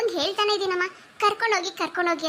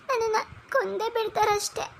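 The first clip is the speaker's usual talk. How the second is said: tearful; 4 semitones higher than usual. Acted. Fears in-laws will kill her.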